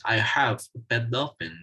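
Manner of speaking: "have" said in full strong form; stress on have. Shown as a demonstration. Teacher explaining the first example, stressing "have". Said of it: "words that have a full stress".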